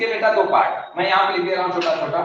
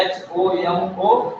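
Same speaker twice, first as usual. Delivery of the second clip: slow, careful dictation of each letter; slow spelling; 3 semitones lower, much slower than usual. Shown as a demonstration. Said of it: "spelling है".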